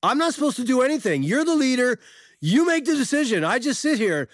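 high, imitated argument outburst; retold yelling. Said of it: "she yells back".

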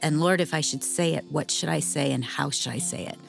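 usual speaking voice

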